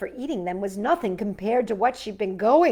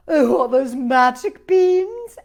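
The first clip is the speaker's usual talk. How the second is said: amazed question; 4 semitones higher, 12 dB louder, slower than usual. A narrator's reading. Missus Cream asks, amazed.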